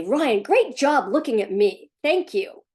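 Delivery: frustrated mother praising Ryan through gritted teeth; mock frustrated mother. Hint of mock frustration. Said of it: "they say".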